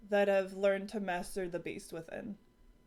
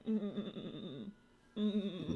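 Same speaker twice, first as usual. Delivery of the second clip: vain goat hums; 7 dB quieter than usual. Pretend. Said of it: "just kinda going".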